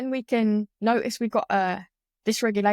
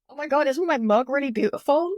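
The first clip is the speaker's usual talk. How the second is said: higher, gushing over a mug, half-joking; mock woo-woo wonder; 5 semitones higher than usual. Poking fun at her own yoga calm, mock awe. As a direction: coo in gentle mock rapture. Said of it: "it sounds so woo-woo".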